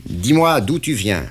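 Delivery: the boss pinning down the deal; interrogating patron; stern boss. Acted. Patron commands.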